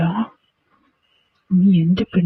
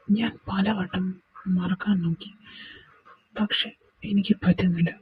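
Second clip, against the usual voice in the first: sad; 7 dB quieter than usual. Acted. Confessing lost love.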